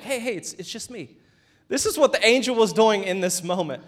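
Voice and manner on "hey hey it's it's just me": hushed reassurance. Retold or imitated. Comforting someone you scared.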